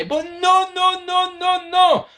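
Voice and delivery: high, hammed-up "no, no, no"; mock dramatic denial. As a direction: ham it up like a wrestling swerve. Mock dramatic swerve reveal.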